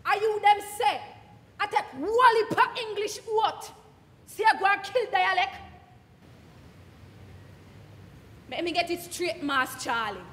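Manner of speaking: indignant patois speaker challenging the critic; Jamaican dialect monologue. Acted. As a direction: argue back in broad patois, wounded and sly. Performing Miss Lou dialect piece.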